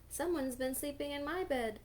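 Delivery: lightly voiced mama bear; just a hint of mama bear; middle-sized voice. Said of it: "cried Mama Bear in her middle-sized voice".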